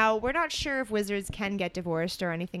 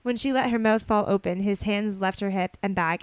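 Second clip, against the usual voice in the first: measured storybook reading voice; story narration; 3 dB louder than usual. A narrator's reading. Co-host reading romantic fan fiction aloud, story narration. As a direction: read it out evenly as narrative.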